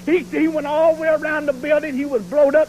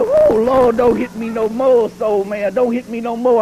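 mock pleading; 3 semitones lower, 3 dB louder than usual. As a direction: imitate a beaten opponent begging for mercy. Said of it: "He laying there bleeding and looking up".

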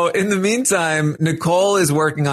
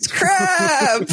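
very high, hammed-up fake horror; fake dismay shout; slower than usual. Imposter faking shock at the vote, very high hammed-up shout. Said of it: "the bad imposter is like".

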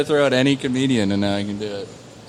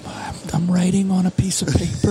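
hushed start, then slightly higher comic impression; Dimitri Martin; 4 semitones higher than usual. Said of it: "Dimitri Martin".

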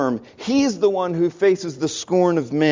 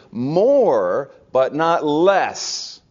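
"More, but not less" with "not" hit hard; slow emphatic; much slower than usual. Shown as a demonstration. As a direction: stress on not, said slowly. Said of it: "Now, listen to me carefully".

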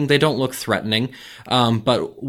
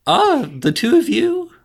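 goblin voice; 4 dB louder than usual. Acted. Goblin gatekeeper.

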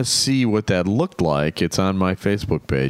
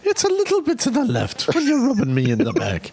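husband being rubbed; 6 semitones higher, faster than usual. Pretend. Joking as husband getting massaged.

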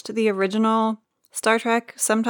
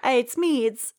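British Harry Potter attempt; 6 semitones higher than usual. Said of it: "let me try that one again".

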